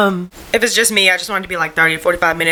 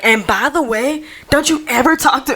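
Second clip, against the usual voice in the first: mock scream; 6 semitones higher than usual. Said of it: "screaming at him".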